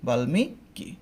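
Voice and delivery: বাল্মীকি said as bal-miki, hasanta on l; careful pronunciation. Shown as a demonstration. Teacher to class, demonstrating বাল্মীকি clearly. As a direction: spell the sounds out slowly, bal then miki. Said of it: "সূত্র অনুসারে".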